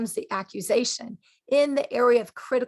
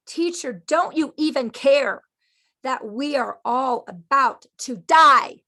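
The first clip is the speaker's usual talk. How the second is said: panicked disciples shouting; 2 semitones higher, 7 dB louder than usual. Acted. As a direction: yell it like the boat is sinking. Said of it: "Sorry, did I scare anybody?".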